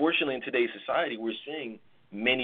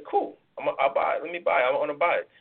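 quick, louder burst of keenness; eager buyer; 3 semitones higher, 3 dB louder, faster than usual. Acted. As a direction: jump at the offer. Acts out an eager stock buyer.

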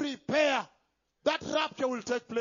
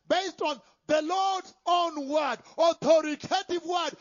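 emphatic preaching; 5 dB louder than usual. Real, not acted.

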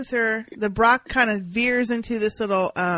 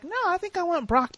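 sheriff's quote; 10 semitones higher than usual. Retold or imitated. Quoting sheriff choosing Brock.

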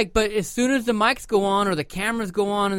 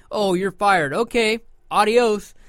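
slow, breezy "adios", higher and louder; mock dismissive firing; 4 semitones higher, 6 dB louder, slower than usual. Boss firing the host, mockingly breezy and slow.

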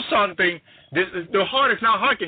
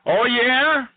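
sceptical God; 6 semitones higher than usual. Acted. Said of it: "and God is saying".

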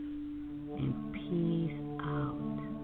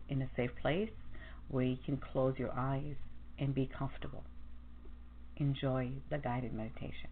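soft radio host; 5 semitones lower, 12 dB quieter than usual. Acted. Soft intro to the meditation.

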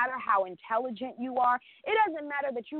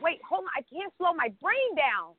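higher, fast frantic pleading; frantic panic; 6 semitones higher than usual. Retold or imitated. On the phone with the representative, frantic higher panic. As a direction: act out a panic attack on the phone. Herself panicking in retold call.

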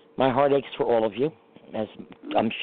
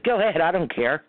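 dismissive; 4 semitones higher than usual. Retold or imitated. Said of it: "He says".

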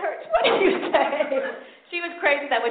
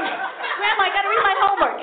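put-on pleading child voice, pitched up; a kid begging for light; whiny kid; 7 semitones higher, 4 dB louder than usual. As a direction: whine at grandma like a kid.

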